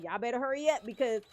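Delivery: building from plain to a high, loud playful yell; mock urgent yell to the kids. Mom hurrying her kids in the Michael Myers game, playful rising yell. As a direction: hurry the kids like a monster is coming, rising into a laughing shout. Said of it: "I be like".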